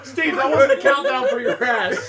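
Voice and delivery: laughing scold. Real, not acted. Host laughs at Steve for farting, laughing. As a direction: tease him while laughing.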